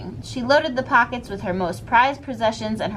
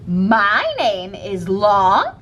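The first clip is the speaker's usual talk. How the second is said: teacher's calm reply; 4 dB louder, much slower than usual. Acted.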